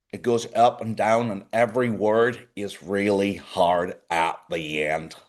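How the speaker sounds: slow Belfast accent, hard word endings; lightly put-on Belfast lilt, landing hard on endings; Northern Irish accent. Shown as a demonstration. Host explaining how Belfast speech sounds, Northern Irish accent. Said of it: "his Northern Ireland Belfast accent".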